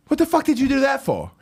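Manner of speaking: high, fast mock-angry demand; hammed-up indignant outburst; Tommy. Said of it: "angrily looks at me".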